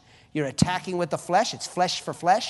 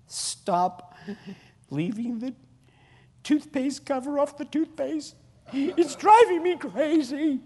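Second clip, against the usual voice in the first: mock annoyed spouse; 7 semitones higher, slower than usual. Acted spouse complaint.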